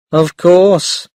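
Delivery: "Of course" said lightly with a small smile. Acted. Mother answering grandmother, a small smile. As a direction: let a little smile into "Of course". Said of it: "said Mum with a small smile".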